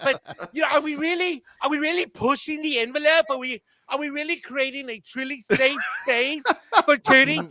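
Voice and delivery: a lightly voiced, preening writers' room pitch; mild mock of gushing producers; mocking Disney writers. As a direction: poke fun at smug writers congratulating themselves. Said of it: "I can just imagine them".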